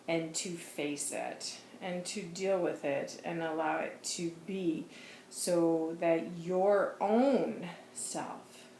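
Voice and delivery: slow, grave spiritual counsel, lightly voiced; solemn channeled voice. Jesus urging Ginny not to let it go, slow and grave. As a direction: speak as a gentle but firm guide.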